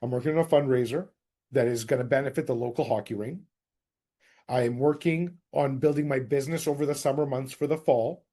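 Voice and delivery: friendly neighbourhood agent calling; cold call script. Shown as a demonstration. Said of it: "Remember what I used to do".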